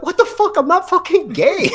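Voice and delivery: high-pitched denial to dad; high outraged protest. Retold or imitated. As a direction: squeal it up high, mock outrage. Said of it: "I'm like".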